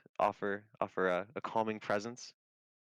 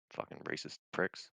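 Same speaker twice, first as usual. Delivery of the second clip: muttered curse; 4 semitones lower, 4 dB quieter than usual. Acted. In-character rant about the guards.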